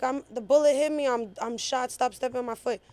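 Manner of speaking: high-pitched retold protest; imitated screaming. Shot girl begging people off her foot, mock screaming. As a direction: imitate her panicked pleading, short of a real scream. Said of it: "she's screaming".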